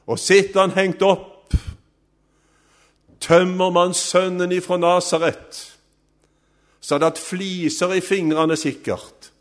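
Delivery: high, forceful sermon storytelling; impassioned preaching. Real, not acted. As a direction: drive the story forward with rising fervour.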